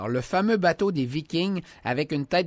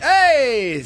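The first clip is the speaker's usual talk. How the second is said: shouted; 7 semitones higher, 7 dB louder than usual. Pretend. End of song shout.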